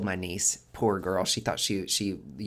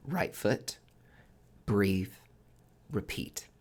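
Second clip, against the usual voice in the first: calm advice; slower than usual. Retold or imitated. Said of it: "But I was like".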